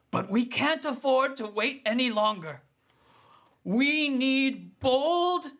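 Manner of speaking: rally the villagers to step forward; rousing town leader speech. Acted. Miller Bettina rallying the gathered townsfolk, rousing.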